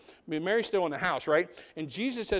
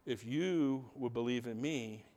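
low, soft, fading to very quiet; hushed promise; 7 semitones lower, 9 dB quieter than usual. Acted. Jesus promises the glory of God, softly. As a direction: let each phrase sink lower and softer.

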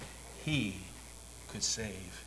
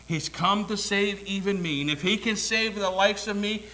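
building testimony; 6 semitones higher, 5 dB louder than usual. Acted.

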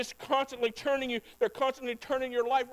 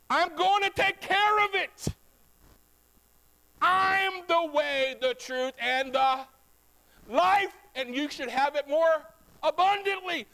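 higher, louder, drawn-out proclamation; preaching voice; 4 semitones higher, 4 dB louder, slower than usual. Acted. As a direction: ring it out like a revival preacher. Preacher voicing Jesus, full force.

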